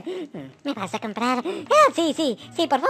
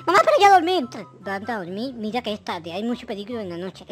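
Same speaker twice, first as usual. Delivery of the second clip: lightly voiced bossy mother, a bit lower; a hint of a strict mother; mom voice; 3 semitones lower than usual. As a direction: send him to bed like a worried mom.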